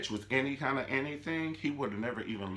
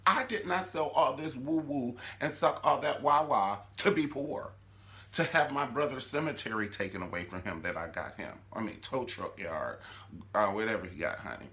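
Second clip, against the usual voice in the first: Candace ranting; 3 semitones higher than usual. Acted. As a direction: rant like a woman done being poor. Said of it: "She said".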